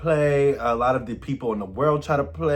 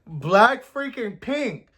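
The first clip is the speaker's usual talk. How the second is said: slow, higher, drawn-out hype; hyped announcement; 6 semitones higher, much slower than usual. Real, not acted. Vlogger introducing a girl group on track ten, hyped. Hyping up the featured group.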